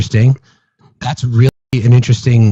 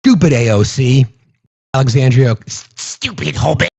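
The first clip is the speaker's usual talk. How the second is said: mock Gollum voice. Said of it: "That's what it sounds like".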